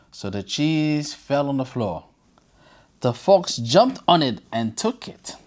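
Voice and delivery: bedtime storybook reading voice; story narration. A narrator's reading. Reading a fable to children, lively storyteller narration. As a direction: read it like a fable for kids.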